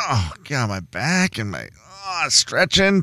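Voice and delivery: soft achy groan; mock groaning. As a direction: groan it like a sore back. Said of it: "limping around the house going".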